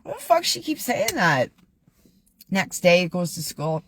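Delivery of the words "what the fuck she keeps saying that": high, fed-up mock Charlie Brown; exasperated Charlie Brown. Telling the joke, Charlie Brown grumbles in a high voice. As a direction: toss it off, baffled and annoyed. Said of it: "And he's like".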